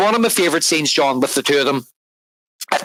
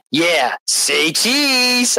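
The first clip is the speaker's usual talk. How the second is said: Penguin says cheese; 5 semitones higher, much slower than usual. Retold or imitated. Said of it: "And the Penguin's like".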